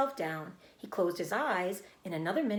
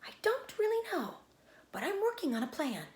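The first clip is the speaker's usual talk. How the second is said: vague; 11 semitones higher than usual. A narrator's reading. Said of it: "said Charlotte vaguely".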